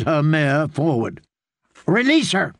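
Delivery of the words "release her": sharp, raised command to the guards; commanding shout. Acted. Brienne ordering the guards off the woman, commanding shout. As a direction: stop them cold with a raised voice. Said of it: "Her voice made the guards hesitate".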